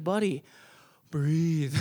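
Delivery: gentle, measured reassurance; calm a crying kid down; soothing coach. Acted. Coach with his hand on the crying boy, soothing.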